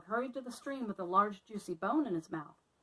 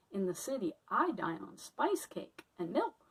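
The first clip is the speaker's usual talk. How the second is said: grand airs. Acted. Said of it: "rather grandly".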